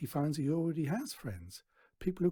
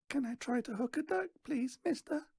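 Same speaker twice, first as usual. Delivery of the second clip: put-on much higher small child voice; little boy; 12 semitones higher than usual. A narrator's reading. Little boy asking Stan for a go, high childlike. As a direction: ask shyly and politely.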